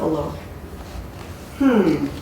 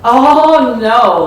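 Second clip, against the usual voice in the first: laughing; 4 semitones higher, 9 dB louder than usual. Acted. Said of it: "laughed the cook".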